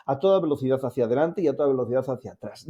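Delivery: quick, light rattle acting out the speed; rapid run-through. Shown as a demonstration. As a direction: rush the whole line through quickly, as if fast-forwarding.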